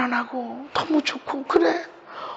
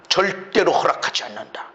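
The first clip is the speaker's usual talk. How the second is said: firm refusal; 6 semitones lower than usual. Shown as a demonstration. Declaration within the rebuke, lowered.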